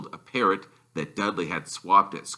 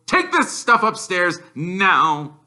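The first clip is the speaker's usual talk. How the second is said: slow, louder bossy command; stern order; 10 semitones higher, 5 dB louder, slower than usual. A narrator's reading. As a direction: order him upstairs. Uncle ordering Harry.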